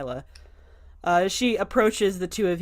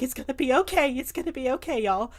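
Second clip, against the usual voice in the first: calming reassurance; 6 semitones higher than usual. Acted. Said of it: "just a very calming presence".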